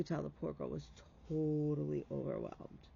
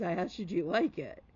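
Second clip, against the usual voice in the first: louder, firm push on like; a half-playful loud insistence on her answer; emphatic insistence; 9 dB louder than usual. Retold or imitated. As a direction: raise the voice to insist kindly. Pressing the girl to answer.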